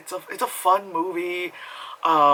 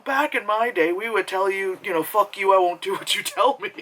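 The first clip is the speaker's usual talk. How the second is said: mock boomer; 4 semitones higher than usual. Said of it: "I know I sound like a boomer".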